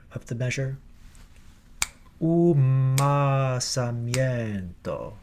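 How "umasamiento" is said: Umasamiento with the lips closing early onto the m; right way. Shown as a demonstration. Choir director showing the right Umasamiento. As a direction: Umasamiento with a long held m closure on the offbeat. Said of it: "Hear how I'm closing to the M".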